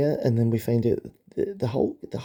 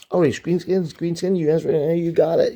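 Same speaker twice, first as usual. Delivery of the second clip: comic hero voice; 6 semitones higher, 4 dB louder than usual. Acted. Reading Iron Man's dialogue.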